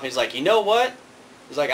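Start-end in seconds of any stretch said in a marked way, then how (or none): 0.3-0.9 high, loud fed-up outburst; the mayor losing his temper at the teasing; angry outburst. Retold or imitated. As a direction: snap at them, out of patience. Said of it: "the mayor gets so pissed off".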